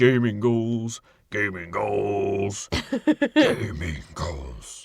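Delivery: very slow, deep, lumbering monster voice, "goals" stretched. Announcing the gaming goals segment in a deep monster-like voice. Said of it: "every time I do a deep voice, it just becomes like a monster".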